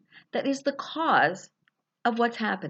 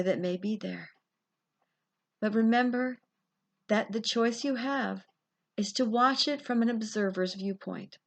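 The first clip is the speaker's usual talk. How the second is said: guided visualization. Acted. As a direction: lead them gently down the corridor.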